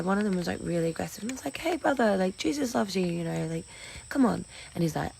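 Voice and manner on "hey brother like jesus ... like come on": pleading with guard. Retold or imitated. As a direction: win the guard over.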